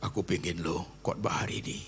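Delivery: soft, slow prayerful voice; altar call. Real, not acted. Pastor softly invites the bowed church to feel cared for. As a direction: speak gently over the music.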